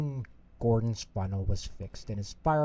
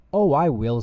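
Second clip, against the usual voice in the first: eager; 4 semitones higher, 6 dB louder than usual. Acted. Thomas eagerly promising.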